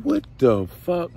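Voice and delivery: high, slow drawn-out disbelief; shocked. Retold or imitated. Nephew spotting his uncle as shot caller, slow high disbelief. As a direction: stretch it out in stunned surprise.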